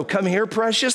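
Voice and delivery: mock sweet talk. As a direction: coo it like calling a lapdog. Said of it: "go through them all and go".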